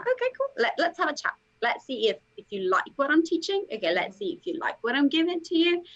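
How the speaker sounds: upbeat coach reply. Retold or imitated. Voicing her upbeat reply to clients.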